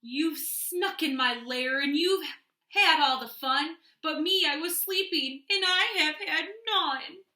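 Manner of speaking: complaining bear. Acted. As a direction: protest being left out.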